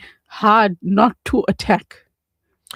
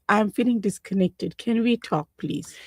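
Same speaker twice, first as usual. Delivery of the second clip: softer, considerate request; nice voice; 7 dB quieter than usual. Shown as a demonstration. Spouse asking to talk instead of accusing, nice voice. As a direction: say it gently, tailing off softly. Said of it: "besides being the nice voice".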